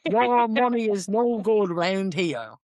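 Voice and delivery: slow, stretched mock Navan accent; bad Navan accent. Local to famous actor in Tesco, bad Navan accent. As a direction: lay on a terrible Navan accent, slowly. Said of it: "the worst Navan accent ever".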